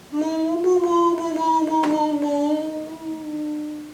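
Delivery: high, loud run of moos; chattering cow-speak; explaining in cow talk. Acted. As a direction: plead your case in moos. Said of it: "gotta explain to him and Moo Cow".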